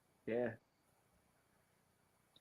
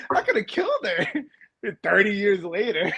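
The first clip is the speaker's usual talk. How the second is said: laughing; 5 semitones higher than usual. Real, not acted. Laughing at own story.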